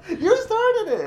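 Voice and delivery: laughing. Real, not acted. Laughing accusation.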